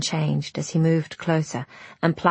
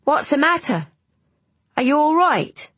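higher, urgent questions; loud, worried check on someone close by; 10 semitones higher than usual. A narrator's reading. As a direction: raise the pitch and call it out in concern. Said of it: "his voice loud".

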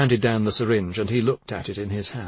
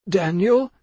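higher-pitched, urgent call by name; pleading, raised-pitch address; impassioned appeal; 8 semitones higher, 3 dB louder than usual. A narrator's reading. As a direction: call out to win his attention. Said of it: "not as impassioned as before".

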